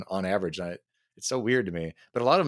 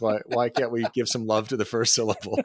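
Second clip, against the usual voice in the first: a touch higher, louder mock-earnest pitch; 4 semitones higher, 4 dB louder than usual. Retelling his friend's nineties joke, mildly hammed-up earnest pitch. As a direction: play up the old joke with mild fervor. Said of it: "You're like".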